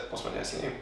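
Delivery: voiceless, giggly testing question; laughing whisper. Retold or imitated. To friends, quizzing the scam caller, laughing whisper.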